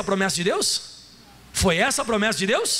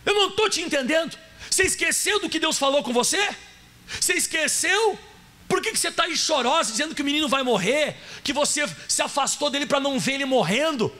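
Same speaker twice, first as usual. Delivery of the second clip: raised, scolding angel voice; the angel of God scolding a weeping Agar; angel rebuking Agar; 3 semitones higher than usual. Acted. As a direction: play the angel chiding her, pitched up. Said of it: "Olha o que ele falou pra Agar".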